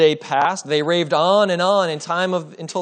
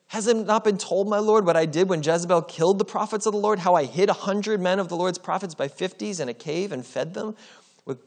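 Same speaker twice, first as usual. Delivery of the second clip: raised, anxious pleading voice; fearful servant pleading; 5 semitones higher than usual. Acted. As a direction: beg him, afraid for your life. Obadiah pleading before Elijah.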